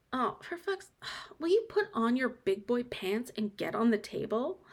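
usual speaking voice

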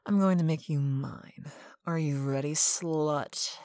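normal talking voice

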